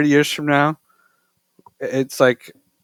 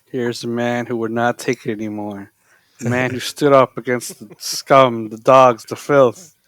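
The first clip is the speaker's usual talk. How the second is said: lower, growing dramatic movie monologue; Taxi Driver movie quote; 5 semitones lower than usual. Retold or imitated. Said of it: "you chose a quote that I actually know".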